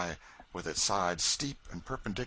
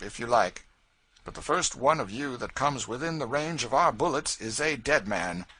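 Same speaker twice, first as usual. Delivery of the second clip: George, defiant free man; 4 semitones higher, 6 dB louder than usual. A narrator's reading. George to the slave catchers, defiant declaration. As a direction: stand tall and declare it.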